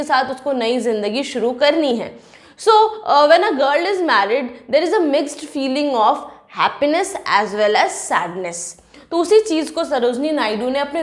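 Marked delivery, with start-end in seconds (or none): 2.6-8.7 very slow, word by word, like dictation; slow English explanation. Shown as a demonstration. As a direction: spell out each word slowly for the class. Teacher restates point in English.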